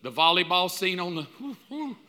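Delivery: mock swooning over the eighties; breathy fanning sighs, teasing the wife; imitating a wife swooning at a movie. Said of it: "with the speaker going".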